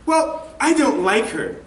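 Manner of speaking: lightly voiced mom, pitch lifted; imitating mom. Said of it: "And mom said".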